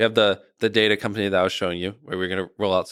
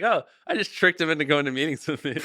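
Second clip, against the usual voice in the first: guilty inner thought; 7 semitones higher than usual. Retold or imitated. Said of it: "I was like".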